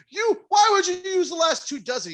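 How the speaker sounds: high, loud mock yell at the cook; replaying the furious question; exasperated shout; retold shout.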